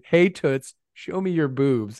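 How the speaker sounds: lightly voiced brash boss; a hint of a swaggering tycoon; Vince McMahon impression. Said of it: "you doing a Vince McMahon impression going".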